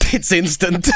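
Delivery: can't hold back the laughter on the punchline; laughing through it. Retold or imitated. Laughs while quoting himself.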